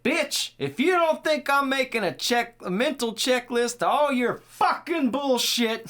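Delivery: put-on high, loud drunk-stepdad tirade; imitated yelling. Host acts drunk stepdad cursing out his lady, imitated yelling. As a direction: rant at full shout, leaning hard on the swearing. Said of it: "he is yelling".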